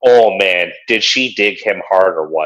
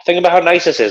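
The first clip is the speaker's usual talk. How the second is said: lightly raised, dreamy imitation of the boyfriend; high dreamy mock voice; 10 semitones higher than usual. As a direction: muse about it in a raised, put-on voice. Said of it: "He's like".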